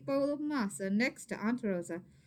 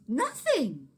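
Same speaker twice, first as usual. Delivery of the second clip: louder, punchy reveal; dramatic reveal; 3 semitones higher, 7 dB louder than usual. A narrator's reading. Reader revealing the letdown to kids, punchy. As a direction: burst it out as a letdown.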